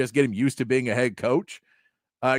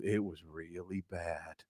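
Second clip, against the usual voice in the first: much quieter, slow, downbeat mumble; mock gloomy coach; 9 semitones lower, 18 dB quieter, slower than usual. Host mimicking Venables talking to reporters, glum and muted. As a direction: deflate it like a defeated coach. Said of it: "And Brent Venables goes".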